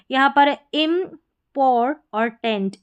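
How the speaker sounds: इम्पोर और टेंट धीरे, अलग अलग टुकड़ों में; इम्पोर ... टेंट को अलग करके बोलें; split syllables. Shown as a demonstration. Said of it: "इम्पोर्टेंट". (इम्पोर और टेंट टुकड़ों में धीरे)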